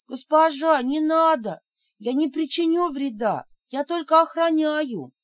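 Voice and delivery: high pleading spirit voice; frightened little spirit. A narrator's reading. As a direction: beg your mistress not to strike. Frightened spirit begs mistress. (испуганный писклявый домовой)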